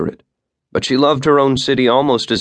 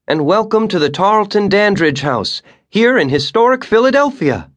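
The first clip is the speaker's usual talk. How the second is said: much higher, louder voice projecting to a crowd; tour guide welcome; 12 semitones higher, 3 dB louder than usual. A narrator's reading. Guide welcomes her tour group, projecting loudly. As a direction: announce the house to the whole group.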